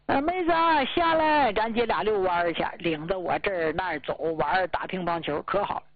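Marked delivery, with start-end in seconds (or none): 0.0-2.6 calling from downstairs. Retold or imitated. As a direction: hail her cheerfully from the street below. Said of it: "站楼下喊". (在楼下扯着嗓子喊妹子)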